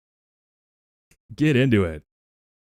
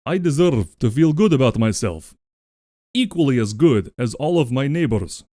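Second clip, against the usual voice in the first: put-on Russian accent. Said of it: "let's do it in Russian".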